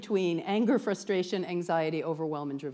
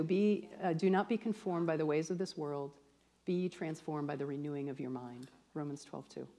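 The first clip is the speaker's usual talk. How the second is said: solemn, measured scripture reading; ministerial; 3 semitones lower, 5 dB quieter than usual. Shown as a demonstration. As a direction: read it like a minister from the pulpit. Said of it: "makes me feel all, like, ministerial".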